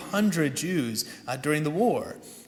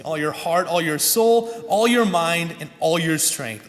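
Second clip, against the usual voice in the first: louder, measured recital of sacred words; scripture recitation; 4 dB louder than usual. Acted. Pastor reciting the Shema to his congregation, loud and solemn. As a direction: proclaim it like a reading from the pulpit.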